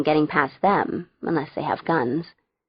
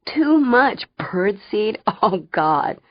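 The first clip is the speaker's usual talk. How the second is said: slow, higher wheeze from laughing; wheezing; 3 semitones higher, slower than usual. A narrator's reading. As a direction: wheeze it out slowly. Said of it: "Fang wheezed".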